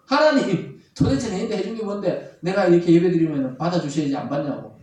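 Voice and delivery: acted indignant challenge to God; accusing protest. Preacher voices Cain protesting his rejected offering, accusing. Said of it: "이렇게 따지고 있는 것입니다".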